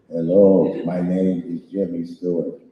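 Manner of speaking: deadpan gag impression; Jimmy Stewart. Shown as a demonstration. Joke impression for fans, hint of Jimmy Stewart. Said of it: "my impression of Jimmy Stewart".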